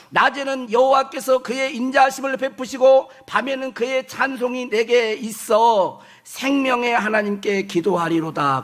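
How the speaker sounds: measured scripture reading, slowing toward the end. Acted. (느려지는 성경 봉독조)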